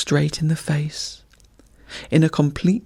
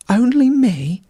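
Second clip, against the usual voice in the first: much higher, louder "Only me?"; incredulous cry; 8 semitones higher, 5 dB louder than usual. A narrator's reading. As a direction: cry out in disbelief. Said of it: "he cried".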